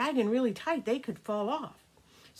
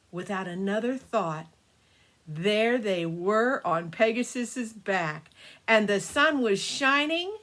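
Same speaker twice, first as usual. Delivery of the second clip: put-on storytelling to children. A narrator's reading. Grandma telling the grandkids a birthday story, gentle storytelling. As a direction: spin a bedtime tale for the grandkids.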